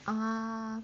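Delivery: sustained level ah for the first tone; high level ah. Shown as a demonstration. Teacher shows students the high flat first tone. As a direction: hold ah on one steady high pitch. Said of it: "starts from the first tone".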